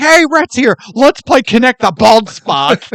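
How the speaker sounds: high, loud playful teasing as Drum. Retold or imitated. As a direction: needle her with a cheeky grin. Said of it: "He's like".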